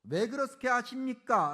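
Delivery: emphatic, loud challenge; demanding protest. Acted. Habakkuk confronting God over his plan, demanding protest. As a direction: press God for an answer, building in force. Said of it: "따져 묻는다는 거죠".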